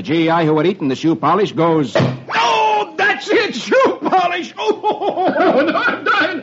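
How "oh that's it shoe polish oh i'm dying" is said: much higher, shrieking with laughter; a soldier collapsing in laughter; helpless laughter. Acted. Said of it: "he rolls around on the floor in agony".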